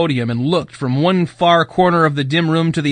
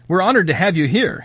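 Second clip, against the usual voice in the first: nervous voice cracking, slightly higher; 4 semitones higher than usual. Acted. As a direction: let the voice crack with nerves. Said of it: "his voice cracking".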